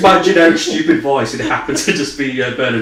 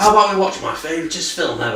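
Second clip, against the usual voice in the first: put-on high, teasing voice; 5 semitones higher than usual. Retelling what Paul said about the film: imitating Paul. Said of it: "That's what you sound like".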